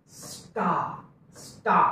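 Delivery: "स्टा" with s, t and aa said together as one syllable; fuse "स्टा" as one syllable for the class; joined sta. Shown as a demonstration. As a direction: blend "स्टा" into one sound, no gap after s. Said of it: "परंतु एकत्र".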